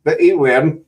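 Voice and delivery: a light mock English accent. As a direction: tease him in a put-on English accent. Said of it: "that's my English accent there".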